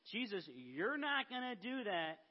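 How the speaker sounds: mock scolding with a swooping pitch; Peter, mild scolding. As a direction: scold him lightly, as a retold quote. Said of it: "scold Jesus".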